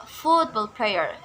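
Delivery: football player with FOOTBALL stressed; football player, weight up front; stress on first word. Shown as a demonstration. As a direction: hit FOOT in football player, then fall. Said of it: "stress lies in the first word".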